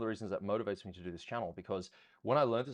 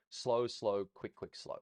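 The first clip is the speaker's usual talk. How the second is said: calling slows and quicks; slower than usual. Shown as a demonstration. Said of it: "count your slows and quicks first".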